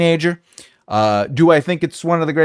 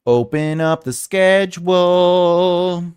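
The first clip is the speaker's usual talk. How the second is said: drawn-out; 4 semitones higher, much slower than usual. Shown as a demonstration.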